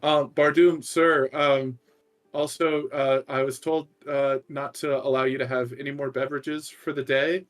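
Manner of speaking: hesitant, awkward reminder to Bardoom; nervous librarian. Acted. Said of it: "is like".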